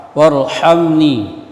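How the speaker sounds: warhamni with a pharyngeal h; throaty ha. Shown as a demonstration. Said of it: "Ha, ha, ha". (Warhamni dengan ha tenggorokan)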